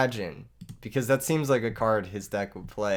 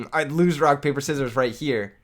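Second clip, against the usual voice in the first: pitched up, louder; put-on voice; 3 semitones higher, 5 dB louder than usual. Shown as a demonstration. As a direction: try to sound like someone else. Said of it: "Okay, hold up".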